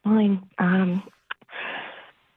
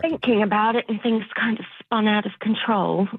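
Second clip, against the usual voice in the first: slipping back into fake British, low; British accent relapse; 5 semitones lower than usual. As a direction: lapse into put-on British while confessing. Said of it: "slipping back into it again".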